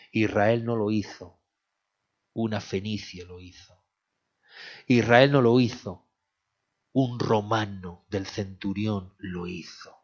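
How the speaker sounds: forceful sermon delivery, rising to a call; preaching. Acted. Preacher driving home his point to the congregation.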